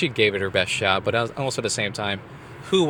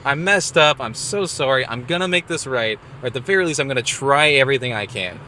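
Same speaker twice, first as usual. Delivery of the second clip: mild earnest apology; 3 semitones higher than usual. Retold or imitated. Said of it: "I was like".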